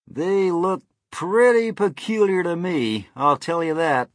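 voiced bystander weighing up a strange sight; onlooker's character voice. A narrator's reading. Man with binoculars gives his opinion.

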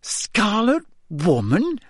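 high, slow, incredulous question; suppressed giggles. A narrator's reading. Hermione repeats Ron's phrase, suppressing giggles. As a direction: repeat SCARLET WOMAN in amused disbelief, rising high. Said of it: "shaking with suppressed giggles".

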